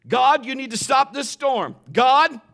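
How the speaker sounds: high, loud begging prayer; mock pleading cry. Pastor mocking a desperate plea to God, loud and high. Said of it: "she's not telling God".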